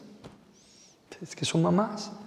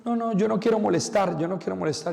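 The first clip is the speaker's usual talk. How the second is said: a raised, hammed-up fussy refusal; mock elderly parishioner; 5 semitones higher than usual. Priest imitates elderly ladies refusing help in a raised voice. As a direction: lightly play a fussy old lady who won't be a bother. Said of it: "A veces".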